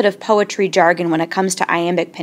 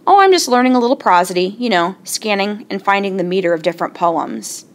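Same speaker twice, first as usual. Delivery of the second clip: casual show-off. Pretend. Student casually impressing parents, quick and breezy. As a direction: toss it off like it's nothing. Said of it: "you can say".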